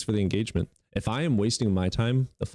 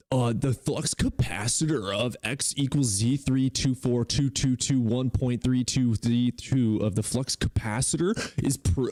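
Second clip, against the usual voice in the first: slow, higher mock-nerdy rambling; mock nerd jargon; 4 semitones higher, slower than usual. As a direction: parody a know-it-all spouting nonsense. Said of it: "they're like".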